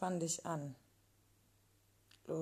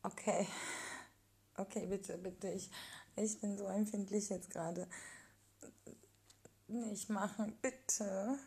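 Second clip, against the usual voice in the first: pleading; 3 semitones higher than usual. Acted. Oversensitive, pleading him to stop.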